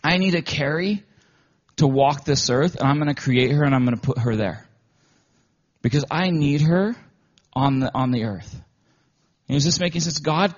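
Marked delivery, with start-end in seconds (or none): 0.0-8.6 louder, eager voice of God; God delighted about creating someone; a louder God bursting with plans. Acted. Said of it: "God looked down at this earth and said".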